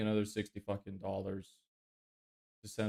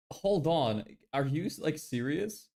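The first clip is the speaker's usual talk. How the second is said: high, laughing disbelief; incredulous laugh, pitched up; 5 semitones higher, slower than usual. Real, not acted. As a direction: laugh it off in shock. Laughs at the paywall.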